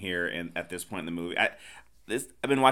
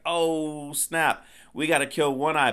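higher-pitched mock dismay; crew's mock alarm; 6 semitones higher than usual. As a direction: act out a rattled crew. Acting out the alarmed crew.

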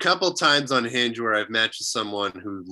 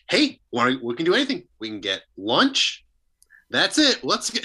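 lightly voiced eager dad; hint of a dad talking brightly to cheer his kid; coaxing dad; 3 semitones higher than usual. Podcast guest voicing a father offering his daughter lunch, coaxing.

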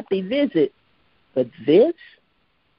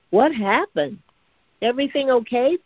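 concerned; 8 semitones higher than usual. A narrator's reading. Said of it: "Bootsy asked, concerned".

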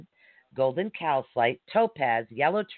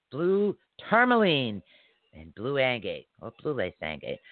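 running out of breath. Real, not acted. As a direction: voice sinking as the air runs out. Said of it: "I think I'm running out of breath".

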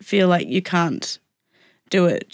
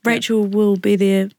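nasal voice. Real, not acted. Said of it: "If I sound really nasal".

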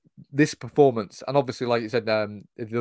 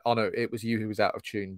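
softer, offhand imitation of a calm verdict; retold calm; 5 dB quieter than usual. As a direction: drop to a quiet, matter-of-fact quote. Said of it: "quite calmly tells one of the other kids".

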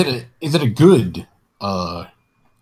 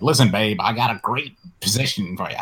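lightly voiced talent agent; a hint of showbiz agent patter; faster than usual. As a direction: pitch it like an agent to a client. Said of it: "the agent voice".

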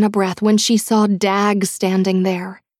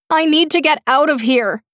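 high, louder desperate wail; 7 semitones higher, 4 dB louder than usual. A narrator's reading. Trapped captor wails that she must get out, high wail. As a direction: let it rise into a wail. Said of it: "the woman wailed".

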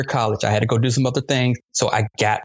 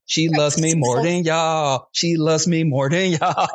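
slow, sing-song gloat at the family; gloating taunt; slower than usual. Retold or imitated. Grandson taunting relatives over his cake, slow sing-song gloat. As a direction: rub it in with a victory chant. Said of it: "she did the cake dance".

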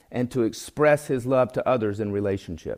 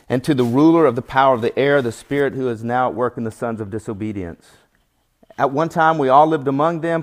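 scripture reading; 4 dB louder than usual. Acted. Preacher reading Paul's letter to the congregation, solemn. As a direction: read the verses with weight.

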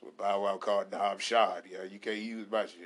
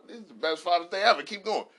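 higher and louder gushing praise; mock delighted; 7 semitones higher, 7 dB louder than usual. Dad celebrating Father's Day with the kids, high and loud. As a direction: praise it over the top.

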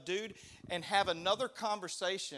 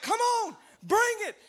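high, loud taunting yell; cocky shout; 10 dB louder than usual. Retold or imitated. Skinny speaker taunting the furious big guy, loud cocky shout. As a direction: dare him to come at you. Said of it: "I'm like".

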